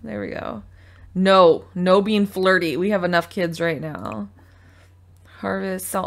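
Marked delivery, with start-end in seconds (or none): 1.1-4.3 mock scolding. Scolding Sims for flirting.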